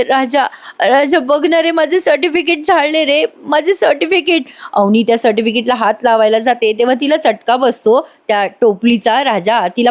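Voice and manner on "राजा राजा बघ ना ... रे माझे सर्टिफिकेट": mild tearful. Retold or imitated. Avani tells Raja about her burnt certificates, tearful and high. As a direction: show her the loss through tears. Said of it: "अवनी रडते आणि म्हणते".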